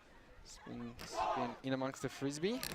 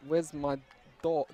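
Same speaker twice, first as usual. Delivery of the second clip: a hint of a New Jersey accent, louder; 5 dB louder, slower than usual. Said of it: "New Jersey impression".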